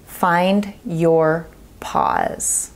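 hushed whisper, very slow; slow whispered mantra; whispered key phrase. Shown as a demonstration. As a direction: breathe it out slowly like a secret. Key phrase delivered as a hush.

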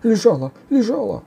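high, loud ogre's cry; shouting ogre. A narrator's reading. Ogre protesting to the warrior, high loud shout. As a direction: yell it in a high-pitched ogre voice. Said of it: "кричал людоед".

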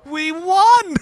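high, loud victory cry; gleeful shout, pitched right up; triumphant cheer. Real, not acted. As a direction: crow it to the losing side. Team wins race.

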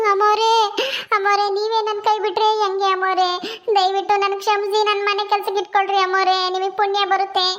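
maid begging her mistress through mock tears; whiny staged crying plea; tearful pleading. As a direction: plead tearfully to be taken back. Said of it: "ಸಾಕು ನಿನ್ ಕಣ್ಣೀರಿನ ನಾಟಕ".

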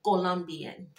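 "Colombian" said with a Colombian accent. Shown as a demonstration. Reader repeats the corrected word, in a Colombian accent. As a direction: pronounce it as a Colombian woman would. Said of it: "correct me on how I'm saying it".

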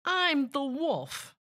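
lightly voiced wolf; wolf introduction. A narrator's reading. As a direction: announce yourself as the wolf, drawn out. Wolf introduces himself to kids.

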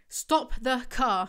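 stretched, slow "Stop the car" pushed a bit loud; a mock scream, not fully committed; half-hearted scream. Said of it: "I screamed".

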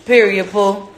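high, loud playful prompt. Real, not acted. Mother coaxing baby to repeat, playful.

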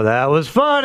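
mock polite "that was funny"; imitating an unamused reaction. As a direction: mimic someone reacting to a joke that fell short. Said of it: "when people go".

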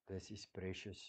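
preacher softly repeats the phrase to let it land; hushed repeat. Shown as a demonstration. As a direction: let "This is precious" sink almost to a whisper. Repeated phrase, hushed second take.

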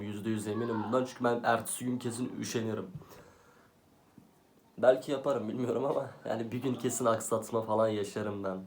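out of breath, talking fast without pausing. Real, not acted. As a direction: speak breathless, barely pausing for air. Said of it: "Nefes nefese kaldım".

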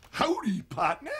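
a light Western cowboy accent on the greeting. Shown as a demonstration. Actor showing off his cowboy accent to the questioner. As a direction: tip your hat and greet him cowboy style. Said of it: "I can do the cowboy accent".

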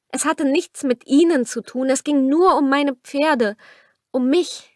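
a hint of a desperate young woman; pleading young woman. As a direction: plead your case to him. Narrator voices Camilla pleading.

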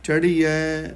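ਚੜ੍ਹੀਐ said a little tight and heavy; slightly tightened, weighty. Shown as a demonstration. Teacher models scripture reading, ਚੜ੍ਹੀਐ tight and weighty. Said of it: "ਥੋੜ੍ਹਾ ਜਿਹਾ ਕੱਸ ਕੇ ਪੜ੍ਹਨਾ ਹੈ".

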